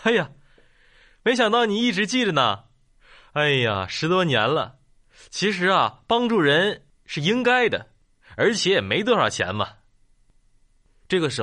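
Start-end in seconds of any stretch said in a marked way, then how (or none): 0.0-9.8 cheerful, modest shopkeeper brushing off thanks; lively, up-and-down delivery, lightly acted; genial shopkeeper. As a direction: play down the favour good-naturedly. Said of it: "老板笑笑说".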